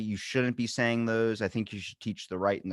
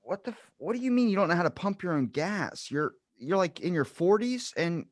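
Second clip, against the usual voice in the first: higher, disbelieving rant; incredulous outburst; 5 semitones higher than usual. Retold or imitated. Retelling his stunned reply to the Jersey woman, incredulous. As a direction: throw up your hands in disbelief. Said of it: "And I'm like".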